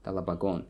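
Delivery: talabagon with stressed gon; talabagon, last syllable stressed; stress on suffix. Shown as a demonstration. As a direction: put the weight on gon in talabagon. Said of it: "on the suffix".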